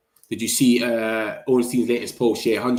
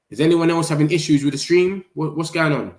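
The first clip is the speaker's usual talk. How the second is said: alarmed, raised voice; 4 semitones higher than usual. Real, not acted. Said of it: "Chat on your stream being weird".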